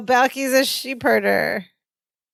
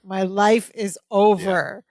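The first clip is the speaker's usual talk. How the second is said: melodramatic despair; slower than usual. Retold or imitated. Repeats the despairing line.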